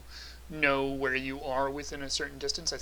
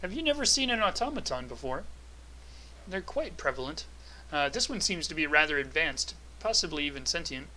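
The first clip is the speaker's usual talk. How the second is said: automaton voice. Acted. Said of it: "talking in the automaton voice".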